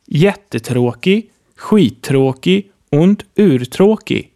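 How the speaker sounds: skittråkig und urtråkig said slowly and clearly; slow, clear example. Shown as a demonstration. Teacher reads example words slowly for learners. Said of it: "so bekommen wir zum Beispiel".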